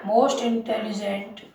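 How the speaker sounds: very slow, word by word, for writing down; spelled-out dictation pace. Shown as a demonstration. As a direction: dictate it slowly so they can copy. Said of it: "next लिखें".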